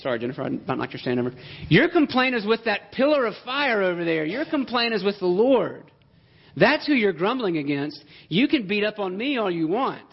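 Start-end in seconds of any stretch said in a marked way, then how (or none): 1.7-10.1 higher-pitched, emphatic exasperation; fed-up Moses. Acted. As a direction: lightly play a leader who has had enough. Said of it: "That's how fed up he is".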